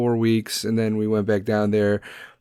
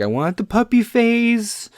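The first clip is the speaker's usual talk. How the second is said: higher, mocking voice that speeds up into a rush; mocking careless owners; 5 semitones higher, faster than usual. Mocking careless dog owners who want only the puppy phase. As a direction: sneer at the puppy-phase people. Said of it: "they're like".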